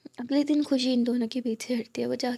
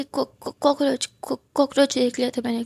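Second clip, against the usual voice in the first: stammering, louder panicky excuse; flustered stammer; 6 dB louder than usual. Acted. Geeta stammering an excuse to her daughter, flustered. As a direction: stumble over the word, caught out.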